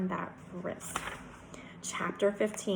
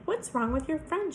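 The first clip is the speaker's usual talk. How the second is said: high, concerned Southern question; sweet Southern drawl; 7 semitones higher than usual. A narrator's reading. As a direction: ask sweetly with a Southern lilt. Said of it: "speaks in a sweet southern drawl".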